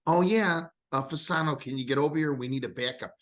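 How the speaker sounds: high, breezy mock team executive; casual front office voice. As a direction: toss off a call to the bench like a general manager. Voicing the team's front office.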